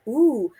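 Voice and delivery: drawn-out imitated "ooh"; impressed ooh. Author reacting to two orange books handed over, imitated ooh. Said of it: "he oohed at me first".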